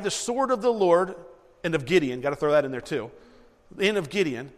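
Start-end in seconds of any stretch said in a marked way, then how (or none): 0.0-2.2 higher, louder battle cry, shouted out; yelled battle cry. Retold or imitated. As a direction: call it out like soldiers charging. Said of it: "And they yelled".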